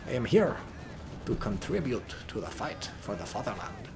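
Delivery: put-on lightly done Russian soldier accent; a hint of a Soviet soldier, proud. Caster voices the rocket launcher with a light Soviet accent. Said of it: "Soviet accent".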